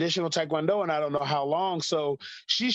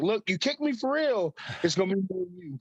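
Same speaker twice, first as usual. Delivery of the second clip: put-on higher-pitched playful warning to a child; mock warning; 4 semitones higher than usual. Dad to daughter before she tries a kick, mock warning. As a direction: put the kid on notice, pitched up.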